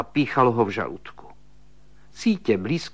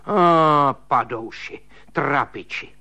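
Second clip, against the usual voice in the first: self-pitying rant; 4 semitones higher than usual. Acted. Sister-in-law raging on.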